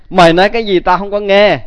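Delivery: comic retold loud outburst; imitating loud hard-of-hearing woman. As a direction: call it out as if you can't hear yourself. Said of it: "ngày xưa cụ bà nói thiệt to".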